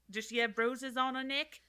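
put-on light Australian accent. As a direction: say it like an Aussie. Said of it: "Why are you from Australia now?".

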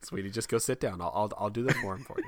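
calm him down like a patient wife; soothing wife. Retold or imitated.

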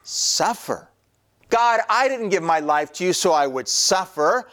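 hammed-up objection to God; indignant cat. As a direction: start incredulous, rise into high-pitched protest. Acts a cat refusing to suffer.

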